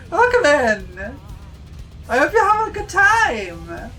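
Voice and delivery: high squeaky anime voice; chirpy high-pitched greeting; cute anime streamer. Acted. Raid greeting, high voice again.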